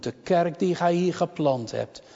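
ordinary delivery

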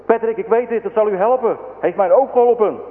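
put-on high, eager child's assurance as read by a narrator; urgent eagerness. A narrator's reading. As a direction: press the good news on him, pitched high. Boy urgently offers help to Patrick.

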